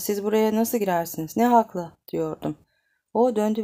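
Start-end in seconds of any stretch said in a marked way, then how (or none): 0.0-1.9 indignant. Acted. Ordering him out.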